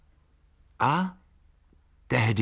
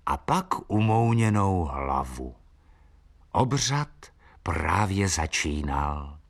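usual speaking voice

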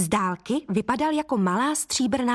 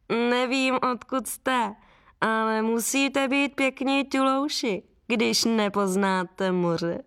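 lightly voiced scornful gull, slow; a hint of a smug seagull talking down; mocking gull; 2 semitones higher, slower than usual. The gull mocks the travellers. (lehce naznačený povýšený racek)

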